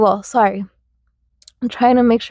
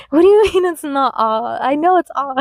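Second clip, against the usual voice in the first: put-on higher, quick protest of a three-year-old; indignant child; 4 semitones higher, faster than usual. Child protesting to the teacher, indignant and higher. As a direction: protest in disbelief like a hurt kid. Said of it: "was just like".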